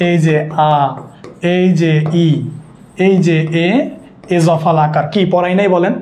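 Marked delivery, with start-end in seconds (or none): 0.7-0.7 আ held low and level; vowel sound demo. Shown as a demonstration. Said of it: "vowel sound মনে আছে". 2.3-2.3 ই held as a level ee sound; vowel sound demo. Shown as a demonstration. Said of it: "vowel sound মনে আছে". 3.7-3.7 এ held as a level ay sound; vowel sound demo. Shown as a demonstration. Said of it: "vowel sound মনে আছে".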